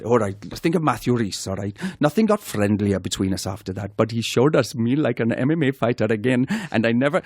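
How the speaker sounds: Welsh accent slipping as it goes; wobbly Welsh accent read; attempted Welsh accent. Shown as a demonstration. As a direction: have a go at reading in Welsh accent. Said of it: "think of a word to get you into it".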